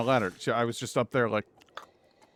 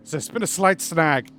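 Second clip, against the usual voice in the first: put-on louder, higher comic German accent; joke German accent; 4 semitones higher, 7 dB louder than usual. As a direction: play a panicked caller with a hammy German accent. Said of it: "My German accent is a joke".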